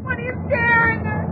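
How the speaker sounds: frightened question. Acted. Wife asking husband why he stares, frightened. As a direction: ask it with fear creeping in.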